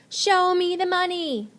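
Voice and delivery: high, loud hammed-up movie quote; teacher hams a movie line in the example sentence. Shown as a demonstration. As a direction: belt it like the film catchphrase. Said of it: "use it in a sentence".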